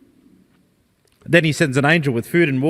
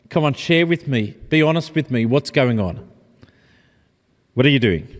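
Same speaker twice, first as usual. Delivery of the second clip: tender. Shown as a demonstration. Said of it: "There's this tenderness about God saying".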